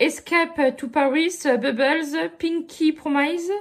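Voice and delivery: English names in a thick French accent; mauvais accent anglais. Real, not acted. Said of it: "avec mon accent anglais, là, qui est pas terrible". (anglais maladroit à l'accent français)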